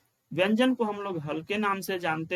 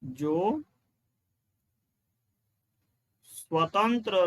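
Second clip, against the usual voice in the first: each word alone with long pauses; slow, broken-up dictation; 3 semitones lower, much slower than usual. Shown as a demonstration. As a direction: dictate slowly so students can write. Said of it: "dictating word by word".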